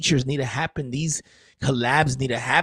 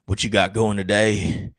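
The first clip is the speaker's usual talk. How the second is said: a lightly voiced mocking squirrel; cheeky squirrel voice; 5 semitones lower, slower than usual. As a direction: lower and slow, a sly teasing squirrel. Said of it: "And they're like".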